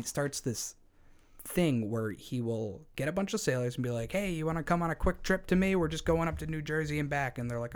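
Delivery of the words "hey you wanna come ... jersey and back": friendly lure. Retold or imitated. Carl luring sailors friendly.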